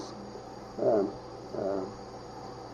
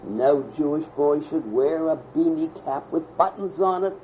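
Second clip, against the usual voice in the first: higher-pitched imitation of a stern teacher, rising as it goes; mock scolding that climbs in pitch; stern instructor; 5 semitones higher than usual. Bar mitzvah instructor scolding a boy over his cap, sternly imitated. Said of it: "the very stern, uh, uh, uh, instructor would say".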